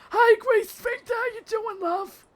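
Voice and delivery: high, chirpy put-on voice; sing-song greeting. Streamer greeting a chatter in a high chirpy voice. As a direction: greet them in a dainty high voice.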